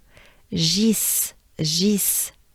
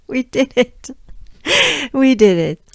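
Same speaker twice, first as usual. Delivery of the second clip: real triumph; 5 semitones higher, 5 dB louder than usual. Real, not acted. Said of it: "cheering after the drill".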